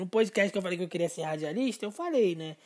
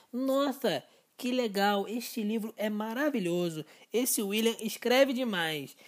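impressed reader; 3 semitones higher, slower than usual. Retold or imitated. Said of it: "com essa mesma entonação de voz".

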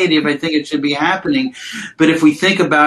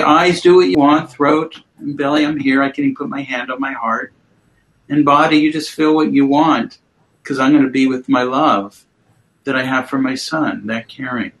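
gentle self-talk. Shown as a demonstration. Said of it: "and say".

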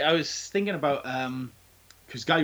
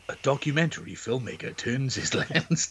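"documentary" read in a storyteller narration voice; narrator voice; 3 dB quieter than usual. Real, not acted. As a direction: trailer narrator read of "A documentary filmmaker turns his lens.". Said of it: "you put on your narrator voice".

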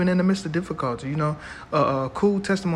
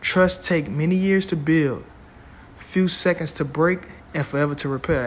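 slow, emphatic repeat; slow and deliberate. Shown as a demonstration. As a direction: stretch it out for weight. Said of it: "I'm gonna say that again".

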